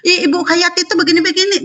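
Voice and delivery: high, laughing parody of the opponent; mock his words through a laugh; mocking quote, laughing. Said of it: "Jangan pula ini bilang saya lenceng".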